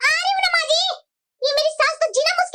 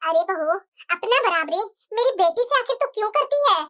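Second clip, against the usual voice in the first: lightly voiced mother-in-law. Mother-in-law rebukes daughter-in-law.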